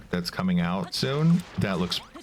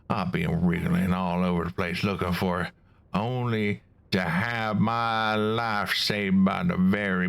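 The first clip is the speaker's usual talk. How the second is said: a lightly put-on Southern US accent, trying hard; attempted southern accent. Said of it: "I'm doing my best to do a southern accent".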